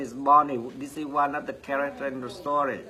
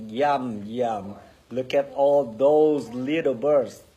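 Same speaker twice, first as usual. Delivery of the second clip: sneaky hungry cat; 3 dB louder than usual. Acted. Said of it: "Sweetie said to himself".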